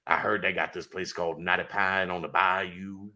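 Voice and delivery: low raspy Coach O impression; gravel-voiced Louisiana coach; raspy smoker's voice. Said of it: "I can do the low, raspy smoker's voice".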